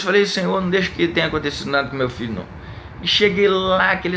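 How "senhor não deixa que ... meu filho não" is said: pleading prayer. Retold or imitated. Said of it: "eu orei a Deus".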